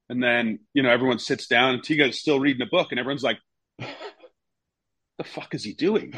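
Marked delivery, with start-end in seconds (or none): 3.8-6.1 baffled teammates. Retold or imitated. Teammates baffled in changing room.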